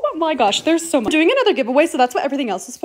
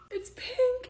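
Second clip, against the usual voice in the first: "It's pink" jumps high and rises, thrilled; delighted; 11 semitones higher, 10 dB quieter than usual. Real, not acted. Unboxing a gift camera, thrilled that it is pink.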